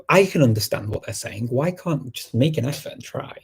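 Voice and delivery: mildly exasperated, pleading retort; retold annoyance. Recalling a protest to someone pretending not to understand, annoyed. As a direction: argue it with a touch of exasperation. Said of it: "I got really annoyed with them".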